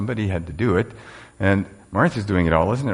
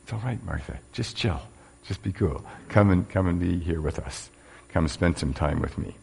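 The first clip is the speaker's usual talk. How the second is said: reassuring Jesus. Acted. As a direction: coax her to come sit. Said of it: "And Jesus says".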